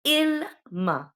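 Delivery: "il ma" lifted high and stressed as the example; "il ma" sung out high, teacher showing the word; high demo of "il ma". Shown as a demonstration. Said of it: "per esempio".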